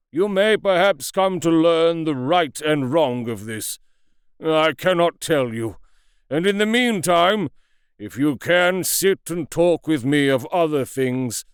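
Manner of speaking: a hint of a tormented old doctor; lightly voiced anguished Lanyon. A narrator's reading. Lanyon begging Utterson to avoid the accursed topic, anguished. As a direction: beg him to drop it, slowing on God's name.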